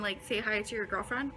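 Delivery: words with a burp. Real, not acted. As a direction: burp through the line. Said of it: "I just burped".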